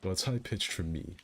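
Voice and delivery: light, airy pirate voice. Real, not acted. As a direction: keep the easy pirate voice going. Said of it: "The pirate voice ... easier on my throat".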